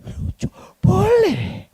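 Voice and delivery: slow, drawn-out high whine. Retold or imitated. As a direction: stretch it out like a child begging. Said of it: "Mulai tinggi".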